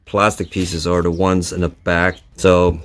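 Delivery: talking while lying under a car; strained, working under the car. Real, not acted. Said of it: "I'm under the car by myself".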